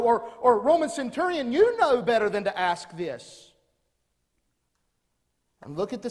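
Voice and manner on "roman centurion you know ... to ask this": higher, louder mock reproach; scolding crowd. Crowd scolding the centurion, louder mock reproach. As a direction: tell the Roman off.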